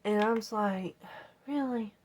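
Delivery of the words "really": can't believe the wire too; exasperated raised really; incredulous really. Retold or imitated. Finding more corrosion.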